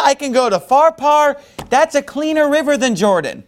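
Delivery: mock the tiny river with contempt; infuriated. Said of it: "he's infuriated by this answer".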